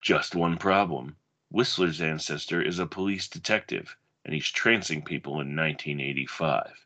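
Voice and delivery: dramatic blurb reading, measured pace; movie blurb read. Acted. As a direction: read it like a video box cover. Reads a movie back cover.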